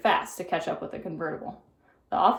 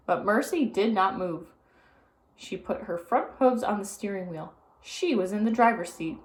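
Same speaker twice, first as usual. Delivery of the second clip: usual speaking voice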